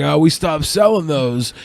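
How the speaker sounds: slow imitation of a store clerk; Jake the Snake Roberts. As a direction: drag it out like a wrestler turned shop clerk. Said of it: "Why does he sound like Jake the Snake Roberts".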